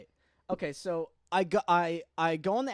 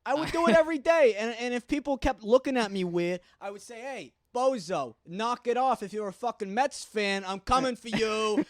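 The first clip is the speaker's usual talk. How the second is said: thick put-on New York accent. Comics doing accents as long as they can, New York accent. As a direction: talk like a New York tough guy. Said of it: "we're gonna do the fucking accents".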